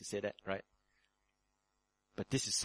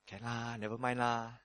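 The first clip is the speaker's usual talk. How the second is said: mock excuse-making believer; 3 semitones higher than usual. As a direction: play the careless churchgoer shrugging. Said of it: "You say".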